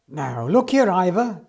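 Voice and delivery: a touch of real temper; angry. Acted. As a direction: tell the engine off for the bumped nose. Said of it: "began Jones angrily".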